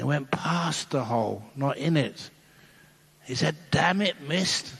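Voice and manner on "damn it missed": higher, exasperated mutter of a curse; the Pope cursing a missed putt; mild mock frustration; frustrated curse. Pope swears after missed putt.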